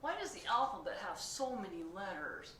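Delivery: high, loud anxious questions; fretting pigeon. Acted. Pigeon worries about school, high anxious. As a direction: fret through every worry.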